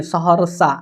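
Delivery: सहरसा as सहर-सा, with no "a" after र; सहरसा said "sahar-sa", र without a vowel. Shown as a demonstration. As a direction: run the र straight into सा. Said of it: "र के बाद अ का उच्चारण नहीं है".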